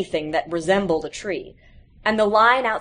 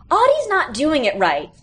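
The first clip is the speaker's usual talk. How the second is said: put-on higher, whiny kids' complaint; complaining; 7 semitones higher, 4 dB louder than usual. A narrator's reading. Classmates complain to the librarian about Audie, whiny. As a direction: tattle on Audie, a bit louder. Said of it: "several of his classmates complained".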